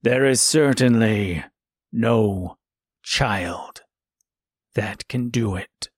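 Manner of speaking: a scornful wolf. A narrator's reading. Wolf sneers.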